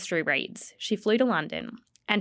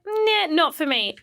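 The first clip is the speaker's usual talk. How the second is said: amused admiration; 7 semitones higher than usual. Retold or imitated. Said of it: "she was like".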